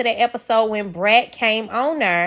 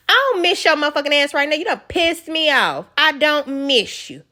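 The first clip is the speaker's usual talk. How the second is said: higher, fast, irritated retort, then slows on the last line; mock angry rant; 5 semitones higher than usual. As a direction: snap back like a fed-up husband. Voicing the annoyed husband.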